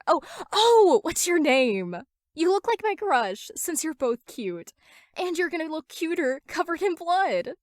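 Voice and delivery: put-on very high, giddy creepy girl; high sing-song yandere girl; Toga's voice. A narrator's reading. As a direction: gush sweetly about blood like an unhinged fangirl. Toga gushing, creepy.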